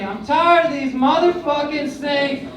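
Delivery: quoting Samuel Jackson. Retold or imitated. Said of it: "famous line".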